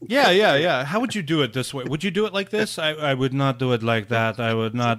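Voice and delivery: put-on weird accent, growing emphatic; Tommy Wiseau impression. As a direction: mimic an oddly accented movie auteur, swelling into loud protest. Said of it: "suddenly you're talking like Tommy".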